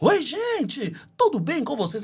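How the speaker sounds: "hello" pushed way above normal pitch. Recalling how they greeted people through a faulty phone microphone: imitating own too-high greeting. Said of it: "Era muito alto".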